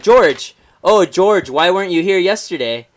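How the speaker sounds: a hint of roll-call teacher; teacher taking attendance. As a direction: call on the absent pupil like a teacher. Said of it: "they're calling, you know, the attendance".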